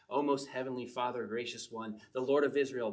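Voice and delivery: a touch of lofty, formal prayer; mock ethereal prayer. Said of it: "this ethereal thing that we need to talk".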